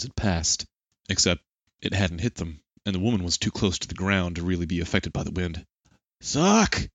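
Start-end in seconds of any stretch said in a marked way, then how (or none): 6.2-6.9 loud, high-pitched shout; shouted command. A narrator's reading. Daichi ordering Ren mid-fight, shouted. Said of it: "Daichi shouted".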